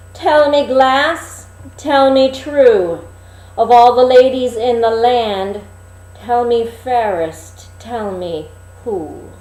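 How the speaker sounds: high, loud commanding queen, fading at the end; a vain queen calling on her mirror; queen's demand. Acted. Queen demanding an answer of her mirror, high and loud.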